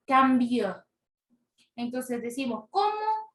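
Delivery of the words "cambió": "cambió" stressed firmly on BIÓ; stress on last syllable. Shown as a demonstration. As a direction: land on the final BIÓ of "cambió". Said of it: "sílaba tónica es vio". ("cambió" con la fuerza de voz en BIÓ)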